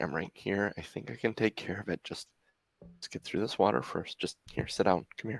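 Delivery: gentle, soft, close whisper. Voicing a character comforting a player's hurt character: whispering in character. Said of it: "she just whispers in your ear".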